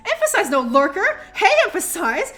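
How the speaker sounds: mock scolding. Streamer teasingly calls out a silent lurker, high and loud. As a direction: playfully call out the lurker.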